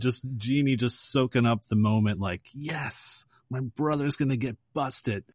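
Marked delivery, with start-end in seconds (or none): 2.5-5.2 mock gleeful relish. Jeannie soaking up brother's capture.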